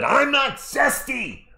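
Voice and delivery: high, slow put-on voice for Cat; teasing impression of a player denying he's zesty; mocking Cat. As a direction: mimic him denying it, drawn out and high. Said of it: "He said".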